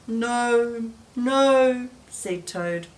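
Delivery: lively read-aloud voice with clear character turns; story reading for children. A narrator's reading. Teacher reading Frog and Toad to children, lively storytelling. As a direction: tell it gently to little listeners.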